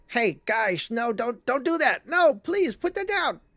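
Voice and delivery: high, pleading goblin squeal; panicky goblin. Acted. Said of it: "The goblin's like".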